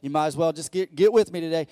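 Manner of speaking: loud, high, stretched-out preaching; preaching at full force. Real, not acted. Preacher pumping up the church, at full force. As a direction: build the congregation up, shouting the verse. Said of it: "I'm about to get pumped up right now".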